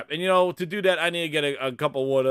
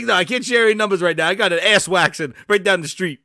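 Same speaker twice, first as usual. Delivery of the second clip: higher, louder mock executive excuse; mock Phil Spencer; 4 semitones higher, 4 dB louder than usual. Streamer imitating Phil Spencer dodging questions, higher and louder. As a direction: ham up the dodge. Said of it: "He's like".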